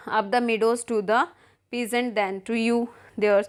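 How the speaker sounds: reads the English lines slowly, word by word; slow play reading. Acted. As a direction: spell out each line of the play for the class. Teacher reads play aloud. (धीमा नाट्य पाठ)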